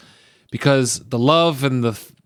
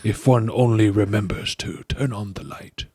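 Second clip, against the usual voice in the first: Dumbledore quote; 3 semitones lower than usual. Acted. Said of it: "Remember his quote?".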